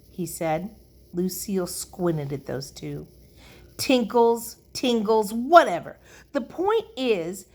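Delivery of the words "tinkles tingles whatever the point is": higher, louder brush-off; dismissive. A narrator's reading. Lucille brushes off the boys' correction, dismissively. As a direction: wave away the correction impatiently.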